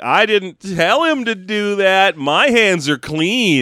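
slow, drawn-out denial; hammed-up innocence; mock innocent protest. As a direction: disclaim all blame, stretching the words. Voicing Luke disowning droid's murder.

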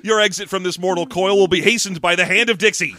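loud grand duel threat; pompous southern gentleman vow; southern dandy. Pretend. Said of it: "Not a southern dandy".

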